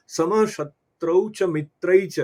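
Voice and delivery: slow, measured recitation of a Sanskrit verse; Sanskrit shloka recitation. Shown as a demonstration. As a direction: recite the verse slowly and evenly, like scripture. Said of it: "उसमें से एक श्लोक का, स्मरण करें".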